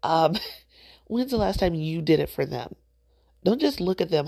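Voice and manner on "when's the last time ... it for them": softened repeat with a laugh; said with love. Real, not acted. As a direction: take the edge off, kindly. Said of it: "I said it with love".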